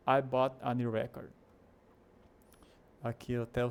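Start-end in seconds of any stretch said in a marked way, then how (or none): 0.1-1.3 "record" stressed on its first syllable, REC-ord; noun stress. Shown as a demonstration. Teacher gives an example sentence, "record" stressed at the start. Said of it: "maiúsculo significa ênfase".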